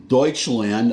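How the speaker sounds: Deutschland as DOYTCH-land; German name. Shown as a demonstration. Setting up his contrast, Deutschland as DOYTCH-land. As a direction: say Deutschland with an oy and tch. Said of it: "I say Germany".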